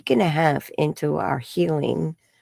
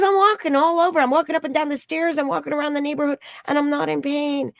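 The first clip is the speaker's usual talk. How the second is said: much higher, quick gushing; excited client; 10 semitones higher, faster than usual. Retold or imitated. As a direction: tumble out the joyful news. Client excited about walking.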